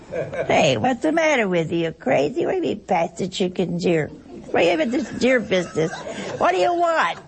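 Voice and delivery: lightly voiced bickering Italian relative, laughing through it; a hint of a rowdy Italian relative snapping at the table; mock Italian family quarrel. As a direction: play a brash Italian at the dinner table, half laughing. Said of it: "That's Italian".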